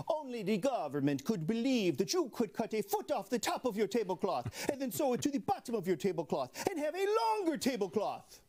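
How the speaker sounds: a hint of an Italian Russian accent; a half-hearted Italian Russian accent. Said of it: "my best Italian Russian accent".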